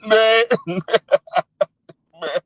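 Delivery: loud mock-distraught "man"; hammed-up wail of self-pity; mock crying. Streamer mocking a man about to lose his job, mock crying. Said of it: "did you see me crying?".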